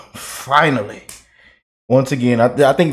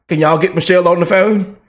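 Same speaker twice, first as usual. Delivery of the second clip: higher, hammed-up staffer voice fighting a laugh; mock panicked Democrat; 5 semitones higher, 3 dB louder than usual. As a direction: play a frantic party aide, barely holding in laughter.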